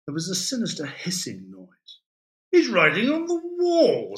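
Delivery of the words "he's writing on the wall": high, loud call of discovery; loud, high-pitched outburst; loud exclamation. A narrator's reading. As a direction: announce it loudly, pitch shooting up. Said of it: "said Adam loudly".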